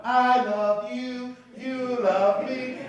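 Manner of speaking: put-on slow, sweet children's-show voice; a light Barney sweetness; Barney-style sing-song. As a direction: croon it slowly like Barney. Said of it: "go Barney on them".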